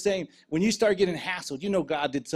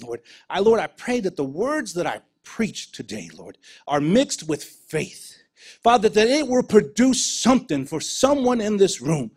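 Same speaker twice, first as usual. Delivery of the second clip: fervent prayer; 3 dB louder than usual. Acted. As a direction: pray it over the room, building with faith. Leads a closing prayer.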